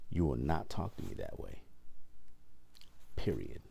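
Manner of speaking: even-voiced, final, with a full stop on the end; firm, measured telling-off. Telling a coworker who jumped in, firm and controlled. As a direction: lay down a boundary without raising your voice. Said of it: "I said it just like that".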